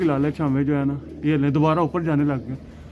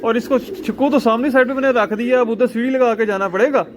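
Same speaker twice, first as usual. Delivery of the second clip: excited retelling; 5 semitones higher than usual. Real, not acted. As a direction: rush through it like the best story of the day. Excitedly retelling chasing the pigeon. (उत्साह से ऊँची और तेज़ आवाज़ में किस्सा सुनाते हुए)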